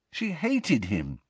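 high, slow, plaintive protest; miserable. A narrator's reading. Harry doubts his mother loved his father, miserably. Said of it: "Harry asked miserably".

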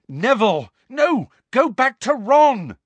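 high, loud warning cry; urgent shout. A narrator's reading. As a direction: yell to send a friend back. Harry warns his friend off.

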